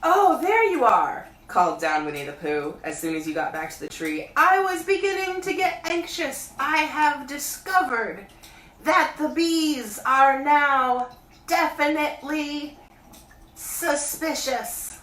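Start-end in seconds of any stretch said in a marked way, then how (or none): 0.0-1.3 high, loud bear calling down; Pooh voice. A narrator's reading. Pooh calling down to Christopher Robin, high bear voice. Pooh greets returning boy. 4.4-15.0 high, loud bear calling down; Pooh voice. A narrator's reading. Pooh calling down to Christopher Robin, high bear voice.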